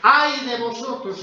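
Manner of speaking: denouncing. Retold or imitated. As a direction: hurl the judgment at the Pharisees. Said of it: "En Mateo les dice".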